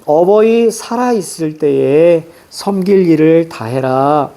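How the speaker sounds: put-on slow, measured reading of old verse; poem recitation. Teacher reading a sijo aloud to the class, slow and measured. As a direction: recite the sijo line slowly and evenly.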